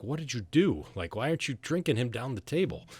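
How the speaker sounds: mock-indignant woman with swooping pitch; scolding friend. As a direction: chide them in disbelief. Anna scolds the losing drinkers.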